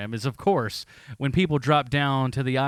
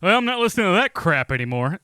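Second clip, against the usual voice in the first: dismissive listener; 3 semitones higher, 4 dB louder than usual. Retold or imitated. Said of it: "they're just like".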